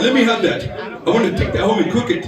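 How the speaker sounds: mock broken-English accent. Man on video wanting the fish, mock broken English. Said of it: "guy that speaks broken English".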